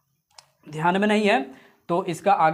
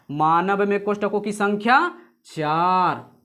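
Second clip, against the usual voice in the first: slow repeat; slower than usual. Shown as a demonstration. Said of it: "तो देखना बड़ा ध्यान से".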